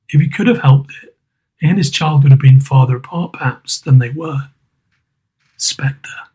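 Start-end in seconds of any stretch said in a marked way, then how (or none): 5.6-6.3 unvoiced hushed call; whispered address to the ghost; whispered spectre. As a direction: breathe the word in dread. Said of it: "said Scrooge".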